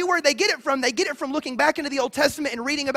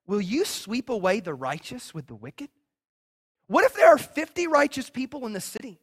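Abraham pleading with God; 5 semitones lower than usual. Retold or imitated. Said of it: "look what he says to God".

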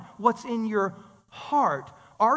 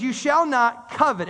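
a hint of God's commanding voice, slowed down; slow solemn decree; 3 dB louder, slower than usual. Preacher voicing God's command to the people, solemn and slow. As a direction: pronounce it slowly like scripture. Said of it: "He goes".

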